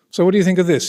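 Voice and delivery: the consultant quizzing his trainee, in clipped upper-class English; posh English accent. Retold or imitated. Consultant surgeon quizzing trainee doctors, in posh English accent. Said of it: "I'm not exaggerating his accent".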